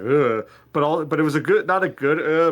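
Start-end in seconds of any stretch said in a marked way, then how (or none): 0.0-0.5 louder grunt of revulsion; disgusted "ugh". Retold or imitated. Listener reacting to the troll's gory sound, disgusted grunt. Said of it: "which I was like". 2.2-2.5 short, louder grossed-out grunt; disgusted "uh". Retold or imitated. Listener showing how the detail felt, disgusted grunt. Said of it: "it made me go".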